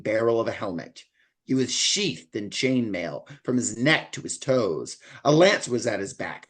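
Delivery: measured reading aloud from a novel; story narration. A narrator's reading. Podcaster reading the knight's arrival to show the writing, story narration. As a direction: read the passage out with deliberate emphasis. Reads a book passage aloud.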